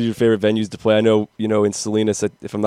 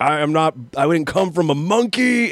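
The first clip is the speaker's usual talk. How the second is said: mock preachy singer; 5 semitones higher than usual. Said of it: "he does the whole".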